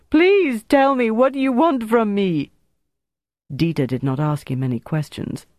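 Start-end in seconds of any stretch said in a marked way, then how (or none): 0.1-2.5 high, anguished begging; imploring. A narrator's reading. Tortured prisoner pleads to know what is wanted, imploring. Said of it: "Bertrand implored".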